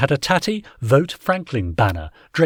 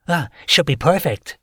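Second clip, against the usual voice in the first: smug landlord voice; 5 semitones higher than usual. A narrator's reading. Tinkler smug.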